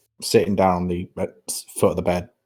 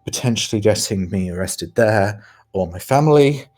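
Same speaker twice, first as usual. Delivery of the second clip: light Irish twang instead of posh; Irish accent. Acted. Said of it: "his voice distinctly changes from the posh voice ... I'm trying for a more Irish twang".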